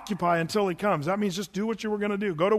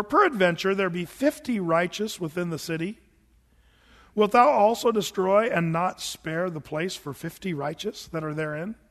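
scripture reading. Acted. Reads KJV scripture.

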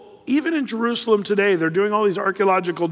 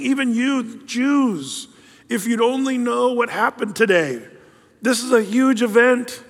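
higher, slow earnest plea on "Even"; pleading Jesus; 5 semitones higher than usual. Retold or imitated. Jesus pleading with the city, higher and earnest. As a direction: lean hard into "Even you Jews". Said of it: "he's saying".

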